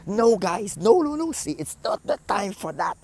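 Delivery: high, pleading no no no; exasperated plea. Retold or imitated. Manager pleading with the crew, exasperated. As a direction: beg them to stop arguing.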